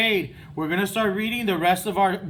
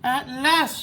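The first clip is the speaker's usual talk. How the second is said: higher, louder joyful cry; shouting; 6 semitones higher, 4 dB louder than usual. A narrator's reading. Toad sees sprouts, mildly higher joyful call. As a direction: burst out in relief. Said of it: "shouted Toad".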